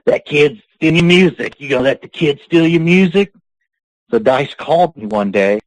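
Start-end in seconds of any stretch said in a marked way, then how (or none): 0.0-3.3 mock goading. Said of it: "kept hounding him".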